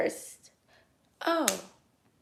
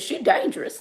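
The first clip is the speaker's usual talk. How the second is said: laughing. Retold or imitated. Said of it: "He said".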